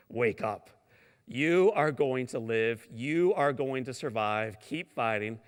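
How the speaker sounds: slow, loud announcer encouragement; lightly voiced booming broadcaster. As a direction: boom it out slowly like a radio voice. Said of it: "big, booming voice".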